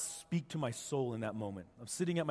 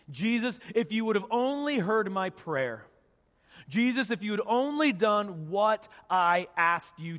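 anguished acted prayer, raised and insistent; pleading; 5 semitones higher, 4 dB louder, slower than usual. Praying to Jesus about disappointment, raised pleading. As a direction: plead higher, leaning on the words.

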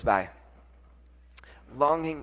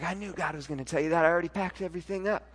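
eager reply; 2 semitones higher, faster than usual. Retold or imitated. Voicing his wife's eager reply.

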